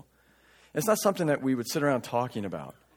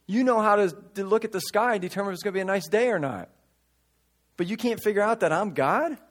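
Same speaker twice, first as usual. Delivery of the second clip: high, rising, worked-up protest; exasperated Jesus; 7 semitones higher than usual. Retold or imitated. Jesus to the Pharisees, high and exasperated. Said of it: "he's just saying".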